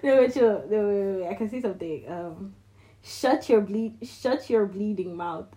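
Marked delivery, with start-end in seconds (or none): 3.0-5.5 slow Irish accent, lightly done; Irish accent attempt. Shown as a demonstration. Trying out Irish slang for friend, Irish accent. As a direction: carefully try an Irish accent. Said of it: "that was my Irish accent".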